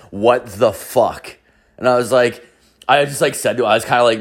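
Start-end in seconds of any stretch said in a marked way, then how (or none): 0.1-1.4 slow, word-by-word imitation of mouthing; mimed mouthing. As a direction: voice someone silently mouthing it, slowly. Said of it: "he mouths the words".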